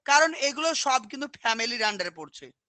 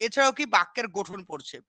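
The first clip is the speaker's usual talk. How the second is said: normal talking voice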